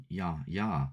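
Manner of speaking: South African "Yeah", vowel opened towards "yah"; South African accent. Shown as a demonstration. Streamer shows how South Africans say yes, South African accent. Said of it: "by the way they say yes".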